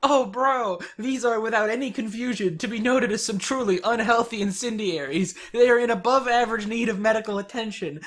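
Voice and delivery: hammed-up bro trash talk; brash troll voice. Acting troll dialogue, higher voice.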